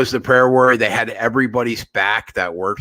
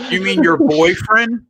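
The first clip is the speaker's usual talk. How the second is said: teasing; 9 semitones higher, 4 dB louder than usual. Real, not acted. Teasing cohost.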